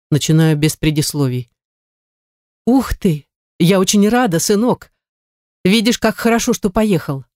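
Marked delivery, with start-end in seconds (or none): 2.7-7.2 lightly voiced mother, higher and beaming; a mother overjoyed at her son's news; delighted mother. Mother hears her son's news on the phone, higher, delighted voice.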